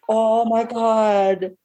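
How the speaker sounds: slow, stretched-out oh my God; drawn-out dismay. Retold or imitated. Reacting to the ex's embarrassing scene, slow drawn-out dismay. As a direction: let the dismay drag out. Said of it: "And it was just like".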